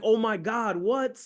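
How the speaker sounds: high, amazed reaction; acted-out happy disbelief; excited family. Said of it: "They're excited. They're tearing up".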